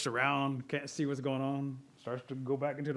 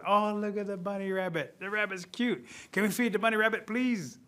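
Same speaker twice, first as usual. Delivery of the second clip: lightly voiced eager kids, a bit higher; pleading children; 4 semitones higher than usual. Children begging to feed rabbit.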